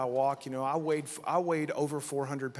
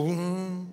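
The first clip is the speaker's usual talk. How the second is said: imitated power hum; 3 semitones higher than usual. Imitates sound of spoken power.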